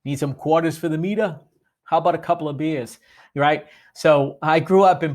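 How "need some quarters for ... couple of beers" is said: a light Boston accent on "quarters", "meter" and "beers", with the r dropped; playful hint of a Boston accent. Shown as a demonstration. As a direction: say "quarters" as "quahtahs" and "beers" as "beeahs", Boston style. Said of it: "how words sound when they're pronounced properly".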